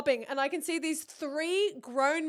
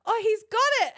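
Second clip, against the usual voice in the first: blurted alarm; 10 semitones higher, 8 dB louder than usual. Retold or imitated. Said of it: "So then I'm like".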